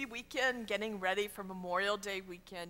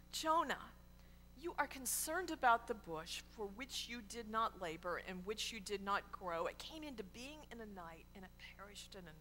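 hushed, soft reproof, dropping further away; quiet God; 7 dB quieter than usual. Acted. God reproves Jonah over the bush, quietly. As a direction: say it quietly, fading almost to nothing. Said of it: "And then God quietly, quietly God says".

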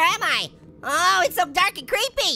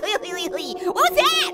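slow drawn-out question; much slower than usual. Pretend. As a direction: stretch every word out very slowly. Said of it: "I'm the one that laughs".

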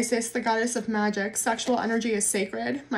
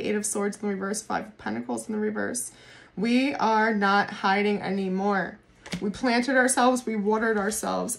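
ordinary talk, nothing marked

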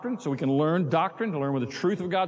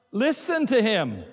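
slow, loud, solemn divine command; a light touch of a booming heavenly voice; voice of the Lord; 4 semitones higher, 4 dB louder, slower than usual. Acted. Pastor voicing God speaking from the cloud, slow and solemn. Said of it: "the Lord says".

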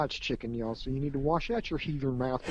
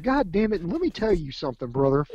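higher, louder mock wrestler promo; wrestling promo yell; 3 semitones higher, 6 dB louder than usual. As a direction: roar it like a wrestler cutting a promo. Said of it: "here's Coco's like, throws off his hat".

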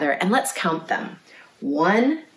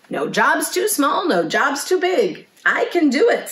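high-pitched, eager storybook pig; can-do Missus Pig; 9 semitones higher than usual. A narrator's reading. Pig volunteers to tuck the lamb in, can-do. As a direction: pitch it up, brisk confidence. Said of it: "said Missus Pig".

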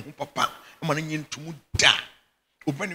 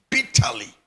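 whispered word; 7 dB louder than usual. Real, not acted. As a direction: drop to a hushed whisper on bitterly. Stressing complaining bitterly.

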